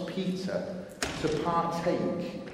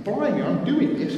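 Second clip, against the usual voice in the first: higher and louder, bursting with glee; thrilled disbelief; 9 semitones higher, 6 dB louder than usual. Retold or imitated. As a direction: blurt it out amazed at yourself. Preacher acts Peter's thrilled realisation.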